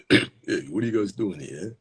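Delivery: lightly voiced character confronting kids; a hint of a put-on guy voice; tough guy shooing kids. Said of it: "Does this guy have this voice?".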